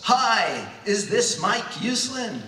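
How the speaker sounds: loud, high, booming greeting; exuberant male voice. Acted. Comics legend phoning a young fan, exuberant. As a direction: burst onto the line with big exuberance. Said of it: "it's this exuberant male voice".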